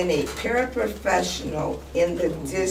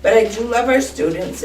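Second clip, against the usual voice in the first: getting emotional; 2 semitones higher than usual. Real, not acted. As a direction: push on, emotion rising in the voice. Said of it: "I'm sorry I'm getting emotional".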